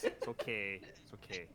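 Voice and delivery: low, put-on man voice; deep character voice. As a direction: drop into a deep voice.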